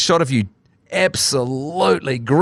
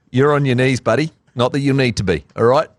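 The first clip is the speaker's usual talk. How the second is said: put-on Australian accent. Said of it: "I'm putting an Australian accent for it".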